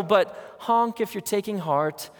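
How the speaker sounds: slow sing-song chirp; mock cheery slogan. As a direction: parody a flimsy slogan. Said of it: "can't imagine that Jesus was saying".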